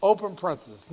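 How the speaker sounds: careful symbol-by-symbol dictation; dictating. Shown as a demonstration. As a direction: read the formula out piece by piece. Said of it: "Let me do it again".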